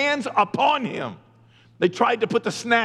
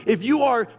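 preaching shout; 3 semitones higher than usual. Real, not acted. Preacher urging his listeners to come to God, shouting. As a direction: cry it out to the listeners, slowing down.

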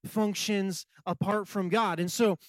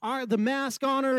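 tearful panic; 5 semitones higher than usual. Retold or imitated. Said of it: "with tears in my eyes".

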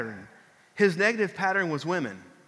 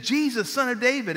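mild mock holler; 5 semitones higher than usual. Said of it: "He's just".

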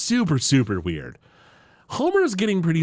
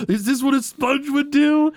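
mock furious yell; 11 semitones higher than usual. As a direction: shout it while punching the wall. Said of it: "He's like".

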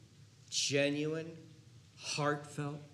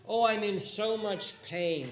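pained moan; 6 semitones higher, 5 dB louder, slower than usual. Acted. Sufferer voiced.

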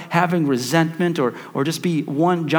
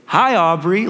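put-on bright-eyed little boy's greeting, higher pitched; excited son; 5 semitones higher, 4 dB louder, slower than usual. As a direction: imitate a thrilled kid saying hello. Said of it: "big eyes, big smile".

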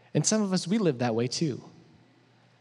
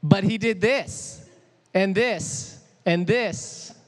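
put-on higher, louder whiny kid protest, dragged out slowly; whining child; 6 semitones higher, 3 dB louder, much slower than usual. Child protesting to mom that his brother did this too, whining higher and louder. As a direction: whine it like a kid tattling on a brother. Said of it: "It's like".

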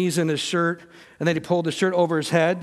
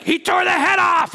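high, loud yell imitating a child; mock yell; 10 semitones higher, 4 dB louder than usual. Daughter telling on her brother, imitated yell. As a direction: shout it like an outraged kid. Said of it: "she's yelling at him".

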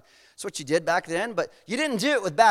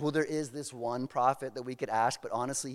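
reluctant king; 8 semitones lower, 8 dB quieter than usual. Retold or imitated. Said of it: "'cause King Ahab says".

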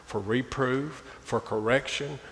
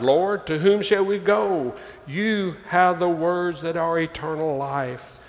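fervent plea; 6 semitones higher, 5 dB louder than usual. Acted. Reading Peter's plea aloud.

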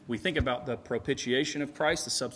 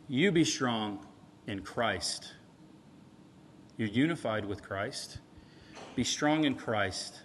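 sincere reassurance; 3 semitones lower than usual. Retold or imitated. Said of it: "He's saying".

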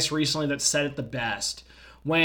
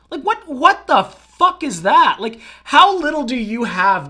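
high, loud disbelief; exasperated, pitched up and loud; outraged; 7 semitones higher, 7 dB louder than usual. Real, not acted. Outburst at licking videos.

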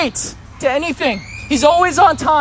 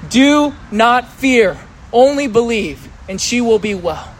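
read aloud together; 2 semitones lower, slower than usual. Shown as a demonstration. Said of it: "read this out loud with me".

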